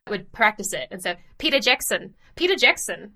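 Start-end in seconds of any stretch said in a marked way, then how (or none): 1.4-3.1 mimicked New Zealand accent, a bit higher. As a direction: copy a New Zealander saying his own name. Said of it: "Peter Jackson saying his name a lot".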